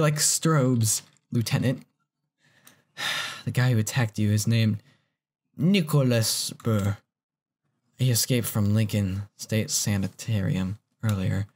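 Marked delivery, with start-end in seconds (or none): 3.5-11.5 low, steady dialogue read; reading game lines. Acted. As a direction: read the cop's line evenly.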